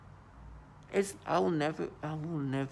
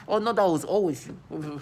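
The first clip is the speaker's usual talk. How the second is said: mocking taunt; 3 semitones higher, 6 dB louder than usual.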